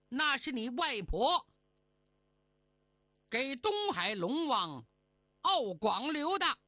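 mildly irritable immortal; grumpy. Acted. Immortal reveals who got the place, mildly grumpy. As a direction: break bad news with a touch of annoyance. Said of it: "没好气儿地说".

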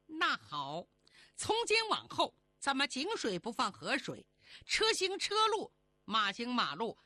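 bitter vow, pitch leaping up in bursts; angry ultimatum. Acted. Fairy disowns her grandmother, bitter angry ultimatum. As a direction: cut her off for good, indignantly. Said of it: "咬牙切齿， 放出狠话".

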